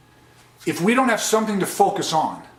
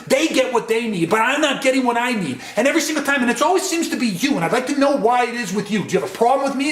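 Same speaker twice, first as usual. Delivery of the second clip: raised, pressing complaint, higher pitched; agitated mid-level escalation; 4 semitones higher, faster than usual. Shown as a demonstration. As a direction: push the accusation harder each line. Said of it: "See, now I'm in that mid-level".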